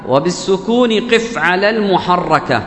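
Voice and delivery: slow, measured recitation of the verse; recited verse. Shown as a demonstration. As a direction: chant the line of the poem slowly.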